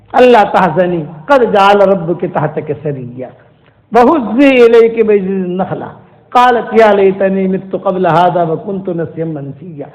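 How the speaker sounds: slow, melodic chanted tilawat; Quran recitation. Acted. Preacher reciting the verse slowly to listeners, chanted.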